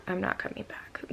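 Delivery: whispered defiant aside; inner whisper. Retold or imitated. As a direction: whisper what you never said aloud. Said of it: "I didn't say this, but I'm like".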